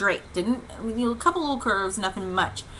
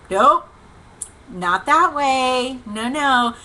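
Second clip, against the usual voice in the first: urgent correction; 3 semitones higher, 4 dB louder, slower than usual. Retold or imitated. Passengers object at the fork.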